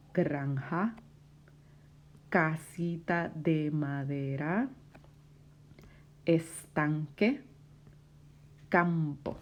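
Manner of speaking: word-list read-aloud. Shown as a demonstration. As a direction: read out the list, pausing after each item. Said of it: "el segundo set de palabras".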